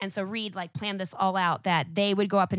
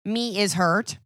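Hulk speak; 4 dB louder, slower than usual. Retold or imitated. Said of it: "sometimes he speaks in Hulk".

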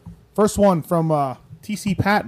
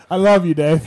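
laughing mock echo; 8 dB louder, slower than usual. Real, not acted. Mocking echo of partner.

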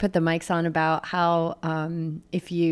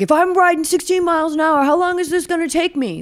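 high-pitched mock whine of a rider losing it; exaggerated exasperated complaint; mock frantic racer; 11 semitones higher, 5 dB louder than usual. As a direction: imitate a rattled racer, pitched way up. Acted quote of rattled racer losing it.

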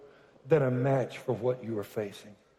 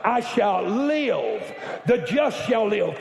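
rising declaration; 5 semitones higher, 3 dB louder, slower than usual. Real, not acted. Preacher building to declaration.

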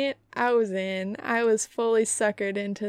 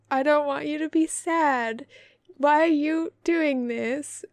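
lightly voiced dog pleading, higher pitch; a touch of doggy distress, pitched up; concerned dog; 4 semitones higher than usual. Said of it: "with a dog around".

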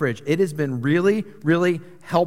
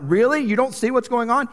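mock exasperation, pitched higher and louder; exasperated; 6 semitones higher, 3 dB louder than usual. Preacher mimicking a wife fed up with her husband, exasperated. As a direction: act fed up with a clueless partner. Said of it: "don't get exasperated and be like".

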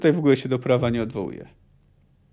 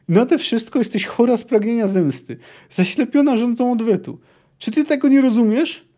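higher, building heated scolding; heated lecture; 6 semitones higher than usual. Acted. Wysogota keeps scolding Ciri, rising heat. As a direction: pile on the accusations, rising.

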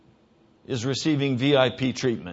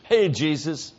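mock casual greeting; 2 semitones higher than usual. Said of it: "You do not come up to Jesus and say".

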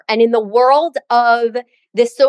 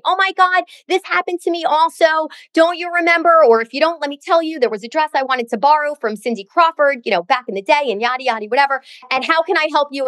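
retold screaming; 5 semitones higher than usual. Friend gushing to the speaker about the borrowed dress, high excited mock squeal. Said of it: "She's now screaming to me, screaming".

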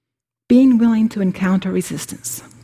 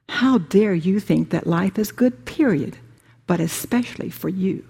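howling ego. Acted. Preacher voicing the ego scolding the listener, lightly accusing. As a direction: play the ego berating you, a mild mock scold. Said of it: "The ego will howl".

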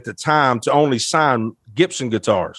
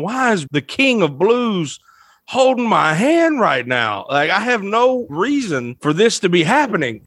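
slow, higher-pitched retold bewilderment; retold stunned disbelief; 5 semitones higher, slower than usual. Guest recalls being shocked as his idol held his hand, slow disbelief. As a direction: stretch it out, mildly dumbfounded. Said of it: "I'm sitting there speechless going".

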